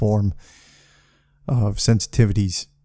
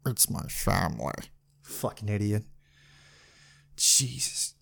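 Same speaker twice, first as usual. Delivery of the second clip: much softer grumble to himself; muttered under breath; 12 dB quieter than usual. Real, not acted. Grumbling at a passing Honda Civic, much softer under his breath. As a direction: mutter it at the car.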